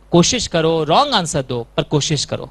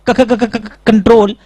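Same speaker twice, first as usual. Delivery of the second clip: mock stammer; 4 dB louder, slower than usual. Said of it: "घटिया acting".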